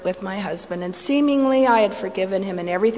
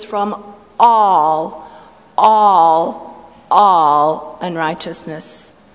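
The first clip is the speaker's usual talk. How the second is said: preaching swell; 3 semitones lower, 8 dB louder, much slower than usual. Acted. Preaching climax on scripture verse.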